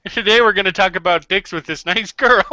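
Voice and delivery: put-on Canadian show-host welcome; hammed-up Canadian accent for a greeting. Co-host mocking the turn to Canadian, Canadian accent. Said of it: "Why are we going to Canadian".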